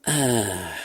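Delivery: long, relieved "ah" with a changed voice; drawn-out sigh of relief. A narrator's reading. Astronaut relieving himself in his suit, drawn-out sigh. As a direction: let out a slow, relieved ahh. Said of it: "a drawn-out".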